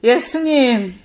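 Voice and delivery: loud drawn-out call to Jesus; first attempt at crying out. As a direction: cry out to Jesus, loud but not yet full force. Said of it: "하고 부르짖었죠".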